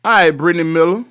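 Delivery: a light polished anchor sign-off, "All right, Brittany Miller" in crisp broadcast tone; news reporter voice. Retold or imitated. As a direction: mimic a TV reporter's tidy on-air delivery. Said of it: "with the news reporter voice".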